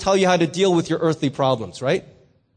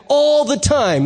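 congregation response; 5 semitones higher, 3 dB louder, slower than usual. Retold or imitated. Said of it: "We were compelled to say back".

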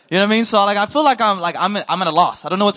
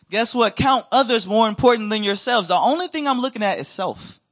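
normal talking voice

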